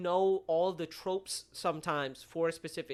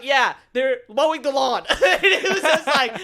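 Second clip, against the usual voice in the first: laughing high and loud; words spilling through laughter; 7 semitones higher, 13 dB louder, slower than usual. Real, not acted. Laughing at own story.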